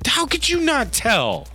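put-on boy rebuking Penny, high and hushed; grown-up kid reproach. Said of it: "Is that how he talks?".

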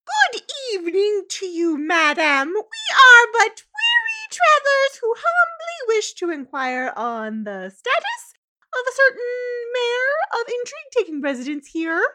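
grand, hammed-up politeness; fancy formal traveler. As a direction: play a pompous traveler greeting a saloon owner. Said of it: "is Missus Trotsworth".

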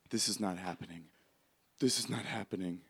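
quiet, softly muttered denial; hushed, repeated disbelief; stunned disbelief. Acted. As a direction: say it under your breath, stunned. Veronica in disbelief as train arrives.

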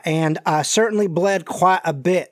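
lightly Southern gentleman voice; Colonel Sanders. Acted. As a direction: let a folksy Southern colonel creep in. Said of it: "like, Colonel Sanders, Foghorn Leghorn sound here".

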